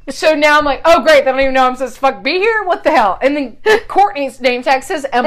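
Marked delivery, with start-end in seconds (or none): 0.8-3.2 loud, higher, fast angry rant; angry outburst. Retold or imitated. Retelling her outburst at the wrong name tag, loud and angry. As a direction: blow up about being left off the list.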